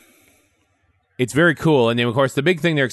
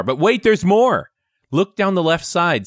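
infomercial; 5 semitones higher than usual. Pretend. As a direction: sell it like a TV pitchman. Product pitch like a TV ad.

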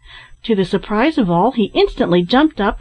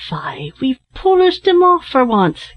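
high, exultant crowing; triumphant cry; 5 semitones higher than usual. A narrator's reading. Larry over the fallen bear, triumphant cry. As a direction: crow over the victory. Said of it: "in the excess of his triumph".

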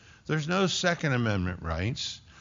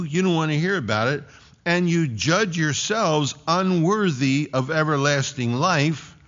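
raised, forceful preaching of Paul's words; bold declaration; 4 semitones higher, 4 dB louder than usual. Acted. Preacher voicing Paul to the Jews, bold and loud. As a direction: proclaim it boldly as Paul would.

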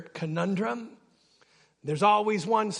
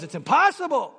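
high, loud jeer; mocking shout; 4 semitones higher, 5 dB louder, faster than usual. The enemy jeers at someone breaking the cycle, mocking shout. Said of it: "And he goes".

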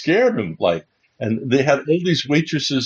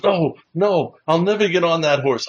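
higher-pitched, earnest refusal; serious refusal; 5 semitones higher than usual. Retold or imitated. Birthday man balks at the horse, serious refusal. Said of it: "He was serious".

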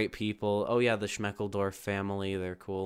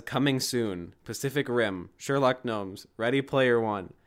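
louder, excited list of titles; excited reading; 3 semitones higher, 5 dB louder than usual. Retold or imitated. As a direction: read the list with rising outrage. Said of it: "it says".

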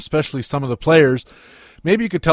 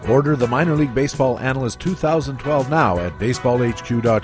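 infomercial. Acted. Ad read over music.

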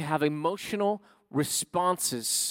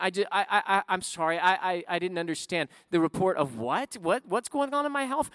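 stunned disbelief; 4 semitones higher than usual. Acted. Acting out disbelief at bad news.

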